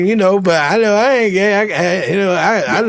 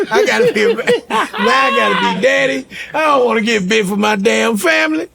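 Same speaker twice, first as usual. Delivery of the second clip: laughing mock dread; 3 semitones higher than usual.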